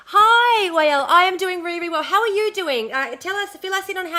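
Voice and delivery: bright greeting. Real, not acted. Greeting a viewer in chat.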